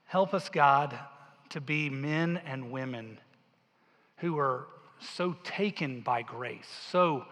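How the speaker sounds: earnest, slowed prayer voice; closing prayer. Acted. Pastor praying for the congregation, earnest and slow. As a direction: plead gently on behalf of all.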